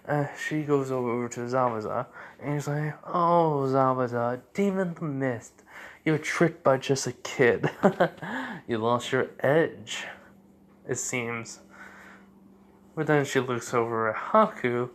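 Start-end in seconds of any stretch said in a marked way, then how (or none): 3.1-11.6 lilting mockery with a little laugh; tease, lifting the pitch at the start; mocking taunt. Masked woman to defeated Zabuza, mocking taunt.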